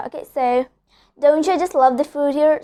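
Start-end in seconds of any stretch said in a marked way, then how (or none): 1.2-2.6 "Don't you" flowing as doncha; assimilated "Don't you", said doncha; linked words. Shown as a demonstration. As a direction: run "Don't you" into doncha without a gap. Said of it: "So it sounds more fast".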